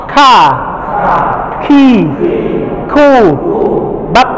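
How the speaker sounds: Ka, ki, ku, bak with a puff of air after k; aspirated ka. Shown as a demonstration. Teacher showing the class an aspirated kaf. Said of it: "kaf itu harus dengan nafas yang kebuang".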